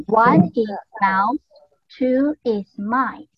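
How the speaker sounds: slow, clear contrast of mouse and mice; slow teaching model. Shown as a demonstration. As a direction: spell out one is mouse, two is mice for the kids. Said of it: "teacher models singular and plural".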